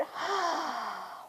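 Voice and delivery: long audible sigh letting the breath out; demo exhale sigh. Shown as a demonstration. Yoga teacher showing kids how to let breath out with a sigh. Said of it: "Let it out".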